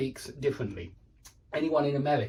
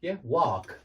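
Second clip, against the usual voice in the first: 1 American wok and walk. Shown as a demonstration. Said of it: "say it like that".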